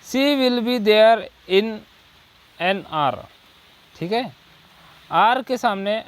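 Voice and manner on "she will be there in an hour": very slow, word by word dictation; slow example read. Shown as a demonstration. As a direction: read each word slowly for the class. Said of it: "फिर next है". (धीमे-धीमे उदाहरण पढ़ना)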